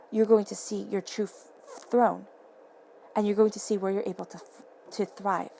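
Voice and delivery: excited, tripping over the f and th sounds; tongue-tied. Real, not acted. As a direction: stumble on the start of a word, then restart. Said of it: "I'm getting tongue-tied".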